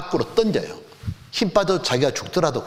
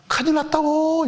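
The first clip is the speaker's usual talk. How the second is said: panicked cry; 11 semitones higher than usual. Retold or imitated. Child drowning, panic cry.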